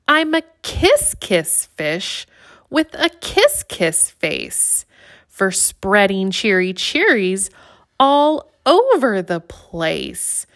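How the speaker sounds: sing-song the happy discovery; delighted fish. Acted. Fish joyful after the kiss.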